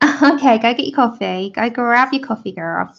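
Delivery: attempted American accent, lightly done; failed American accent; mock American accent. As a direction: try a breezy American twang. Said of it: "I wish I could do an American accent".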